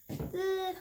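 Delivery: exasperated groan into a loud cry; fed-up ugh, then a frustrated shout; annoyed ugh. Real, not acted. Frustrated at filming a treat.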